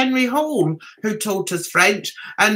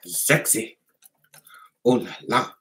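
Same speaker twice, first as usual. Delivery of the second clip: mock sultry oh la la; 12 semitones lower than usual.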